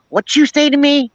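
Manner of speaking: mimicking her daughter Maya, hurt and indignant; little girl voice. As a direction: play the offended toddler. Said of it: "I hear her going".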